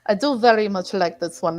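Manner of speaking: a light Russian accent on every word. Shown as a demonstration. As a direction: say it like a Russian speaker, understated. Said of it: "I can talk with the Russian dialect as well".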